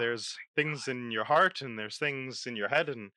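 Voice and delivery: hammed-up Irish lilt; Irish accent. Podcast host greeting his co-host as a lad, in a put-on Irish accent. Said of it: "why do an Irish accent?".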